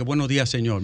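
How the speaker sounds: mimicking the caller. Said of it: "con esa voz así, gutural".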